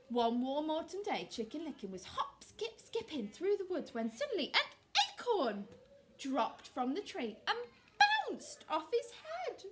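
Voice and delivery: lively nursery storytime voice; storytelling to children. Acted. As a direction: read it out brightly to little children.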